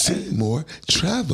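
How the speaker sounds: high slow announcer imitation; voiceover announcer. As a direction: mimic a commercial voiceover. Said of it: "Sound like a voiceover robot".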